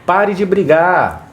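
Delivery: slow, measured "Pare de brigar"; slow calm command. Shown as a demonstration. Parent to fighting kids, slow and measured. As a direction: say it slowly and clearly. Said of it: "como que você poderia falar".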